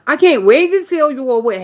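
Southern accent, lifted in pitch; strong accent. Shown as a demonstration. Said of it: "y'all hear it".

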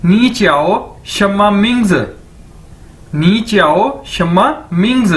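"नी च्याओ शम्मा मिंग्स" word by word, falling at the end; model Chinese phrase. Shown as a demonstration. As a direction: drill "नी च्याओ शम्मा मिंग्स" carefully for learners. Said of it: "आप कैसे पूछेंगे".

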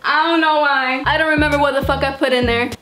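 breathless and laughing; panting through the words; out of breath. Real, not acted. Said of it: "I'm out of breath".

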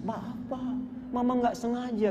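soft, high tearful apology; mock a wife's tearful plea, softly; imitated crying. Wife apologises at husband's feet, imitated crying.

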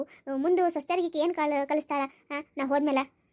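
understated indignant telling-off; mildly angry scolding. Acted. Grandmother complaining about her daughter-in-law, mildly angry. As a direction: grumble crossly, with a touch of anger. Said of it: "ನೀ ಸಿಟ್ಟಿಗೆ ಮಾಡ್ಕೊಳತ್ತಿದಿ".

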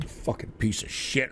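whispered curse. Real, not acted. Streamer cursing quietly to himself after the rant, whispered curse. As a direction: hiss it to yourself, barely audible.

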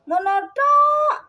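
whiny cat voice. Pretend. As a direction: stretch it out like a fed-up cat. Cat's voiced complaint.

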